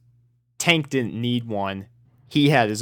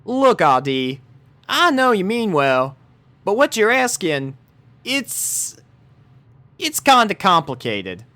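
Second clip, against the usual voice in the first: high, hesitant Southern; hedging with a hard truth; Southern voice trailing uneasily; hesitant Applejack; 9 semitones higher than usual. A narrator's reading. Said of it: "She hesitated".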